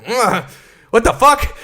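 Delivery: high, startled outburst, half laughing; a musician. Retold or imitated. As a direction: imitate a musician shocked by an awful noise. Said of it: "the musician went".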